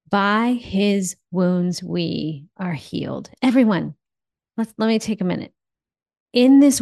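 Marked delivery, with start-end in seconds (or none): 0.1-3.3 slow, hushed scripture declaration; prayerful proclamation. Acted. Speaking scripture over her listeners, slow and reverent. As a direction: let each word land slowly, like a blessing.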